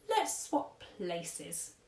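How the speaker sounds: lightly voiced fussy old gent; a hint of a posh old tramp, slow on delicious; old-fashioned gentleman. Old tramp paying at café, lightly voiced fussy gent. Mister Stink on the street.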